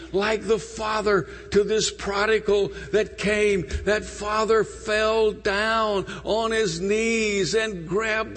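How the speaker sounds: earnest altar-call preaching; preaching appeal. Acted. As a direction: press the invitation on the congregation.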